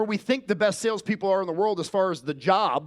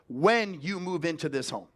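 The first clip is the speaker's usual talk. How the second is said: slow, with weight on "not if"; demo sales question. Shown as a demonstration. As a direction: lean on "not if, when" to sell certainty. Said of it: "ask them".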